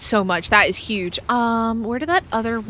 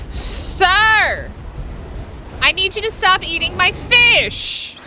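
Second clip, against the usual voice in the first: raised scolding call; scolding a pet; 7 semitones higher than usual. Real, not acted. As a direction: call out the greedy creature. Scolding creature eating fish.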